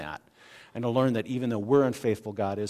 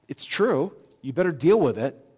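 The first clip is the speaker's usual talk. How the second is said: firm challenge; 3 semitones higher, 5 dB louder than usual. Acted. Preacher paraphrasing Jesus' challenge.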